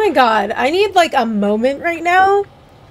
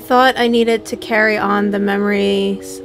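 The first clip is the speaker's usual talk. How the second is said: game dialogue read aloud; 2 semitones lower, 5 dB quieter than usual. Acted.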